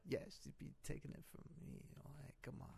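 barely audible, whispery mutter; muttered taunt. Acted. Masked wrestler explaining himself to interviewer, muttered taunt. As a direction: taunt under your breath.

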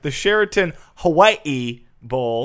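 slow, deliberate announcement of "Sheraton Hawaii Bowl"; proper restart. Shown as a demonstration. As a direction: restart it slowly and formally. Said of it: "Let me, let me start over".

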